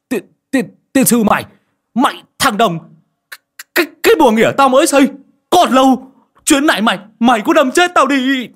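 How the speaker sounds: a man guarding his new toilet curses the reckless rider, furious; cursing loudly. A narrator's reading. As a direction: yell curses at the speeding driver. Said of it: "mồm chửi ầm lên".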